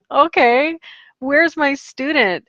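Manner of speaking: high, puzzled call for the missing student; mildly baffled teacher asking where her student is. Retold or imitated. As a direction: raise the pitch and ask where the kid went.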